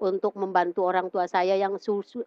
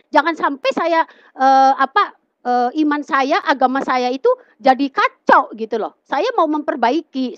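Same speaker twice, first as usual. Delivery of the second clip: raised, insistent retold plea; earnest protest; 4 semitones higher, 4 dB louder than usual. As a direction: insist to a friend, higher and louder. Continues acted plea about faith.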